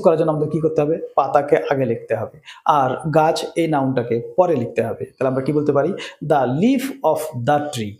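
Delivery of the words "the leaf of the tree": slow, careful English sentence; teacher modelling slowly; slow example. Shown as a demonstration. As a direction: lay each word out slowly. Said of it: "লক্ষ্য করো leaf পাতা আগে চলে এসছে".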